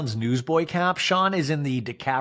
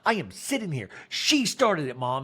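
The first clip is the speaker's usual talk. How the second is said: put-on childish whine. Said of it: "getting like a child".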